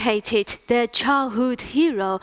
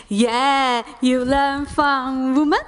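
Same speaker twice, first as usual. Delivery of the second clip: imitating Chinese artist; 2 semitones higher, slower than usual. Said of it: "He said".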